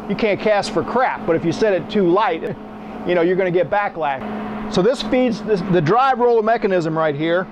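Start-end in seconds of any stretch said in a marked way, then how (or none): none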